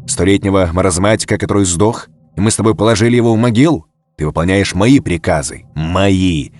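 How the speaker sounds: forceful, indignant dressing-down; angry rebuke. Acted. Colonel berates his pinned bodyguard, angry and forceful. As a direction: drive home who gives the orders.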